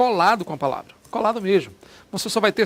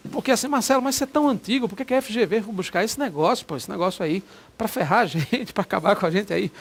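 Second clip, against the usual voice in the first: higher, whiny complaining student; mock student complaint; 3 semitones higher than usual. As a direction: play the annoyed student griping at the teacher. Student complains about the exam. (aluno reclamando, em tom mais agudo)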